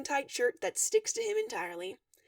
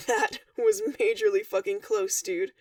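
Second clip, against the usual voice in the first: laughing; 4 semitones lower, 4 dB louder than usual. A narrator's reading. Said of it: "Dave laughs".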